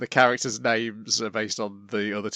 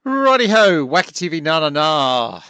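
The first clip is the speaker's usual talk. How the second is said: sing-song; 6 semitones higher, 10 dB louder than usual. Real, not acted. Host jumps in to move on.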